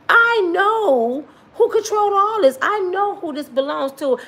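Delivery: joyful laughing boast; laughing triumph. Real, not acted. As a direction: laugh it out with delighted certainty. Laughing while preaching triumphantly.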